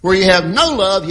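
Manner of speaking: loud hit on "no" in "no love"; stress on no. Shown as a demonstration. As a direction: punch "no" as the key word. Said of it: "Emphasis on the word no".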